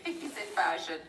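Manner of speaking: "he's in fashion" breathed in a whisper after a laugh; conspiratorial whisper through a giggle; whispered insinuation. Real, not acted. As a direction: whisper it like a juicy secret. Laughing, whispered knowing repeat.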